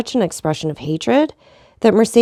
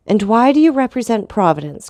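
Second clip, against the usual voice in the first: cried out; 4 semitones higher, 4 dB louder than usual. Acted. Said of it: "cried Mercedes".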